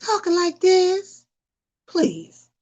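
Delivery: mock their childlike talk; mock high voice. Annoyed at the siblings, mocking their high voices. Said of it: "I'd be like".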